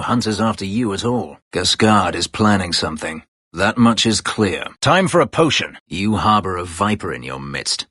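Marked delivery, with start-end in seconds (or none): 4.8-5.8 battle call. Acted. Battle cry in combat.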